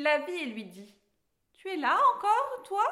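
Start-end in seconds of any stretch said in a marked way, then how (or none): 1.5-2.8 loud, high irritated challenge; angry dwarf. A narrator's reading. Dwarf meets Alice again in the forest, angry. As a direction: snap it loudly, pitched up. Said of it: "très en colère".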